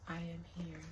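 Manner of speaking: soft, still, small spirit voice. Pretend. The queen's spirit answering the reader, very still and small. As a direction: answer faintly, like a spirit from far away. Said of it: "Very still, small voice".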